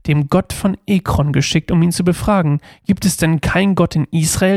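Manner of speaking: measured, steady Bible reading aloud; scripture reading. Acted. Youth pastor reading Second Kings to listeners, measured reading. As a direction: read the verses out clearly to the group.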